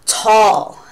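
gasp, then a drawn-out awed tall; amazed tall. Shown as a demonstration. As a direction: act wowed by how tall it is. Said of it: "just to emphasize the word tall".

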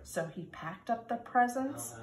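put-on lively storybook reading for kindergarten kids; reading to children. A narrator's reading. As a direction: read it like storytime, sing-song and bright. Reads picture book to children.

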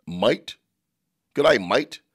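lightly put-on Australian greeting; mock Australian accent. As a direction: try out an Aussie "mate". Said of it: "Yeah, that's Australian".

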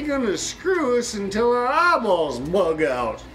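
loud, very high, hammed-up alarm; panicked outburst. Polish soldier warning his companion about the Russians, panicked. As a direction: build to a drawn-out yell, pitch falling at the end. Panicked punchline of acted quarrel.

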